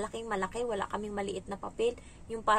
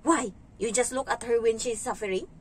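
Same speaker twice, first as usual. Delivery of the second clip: stiff angry English; 4 dB louder than usual. Retold or imitated. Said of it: "pag nagagalit ako, ang tigas".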